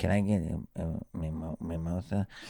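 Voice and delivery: acted, soft, halting, very slow, fumbling, awkward delivery. Retelling a friend's order to a server: imitating awkward ordering. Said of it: "in his, like, little awkward stuff".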